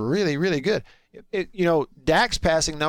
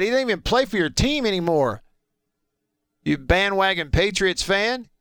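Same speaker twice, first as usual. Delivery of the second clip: mock indignation; 3 semitones higher than usual. Real, not acted. Host mock-scolding a teasing texter.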